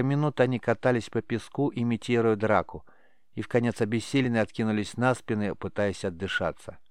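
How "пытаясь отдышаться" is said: plain reading voice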